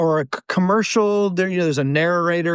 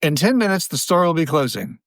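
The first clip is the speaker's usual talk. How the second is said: store closing announcement. Retold or imitated. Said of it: "employees getting on the microphone saying".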